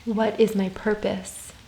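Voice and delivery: calm, unhurried meditation voice with long pauses; guided meditation. Real, not acted. Yoga teacher guiding listeners through soul questions, calm meditation voice. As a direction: gently guide them inward, leaving space after each phrase.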